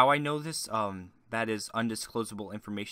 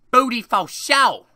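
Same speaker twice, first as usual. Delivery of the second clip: much higher, loud, slow shrieked chant, in a put-on voice; mock commenter yell; 11 semitones higher, 13 dB louder, slower than usual. A commenter shrieking back in the comment war, hammed-up yell. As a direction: scream it like an unhinged troll winning the thread. Quoting a comment section fight.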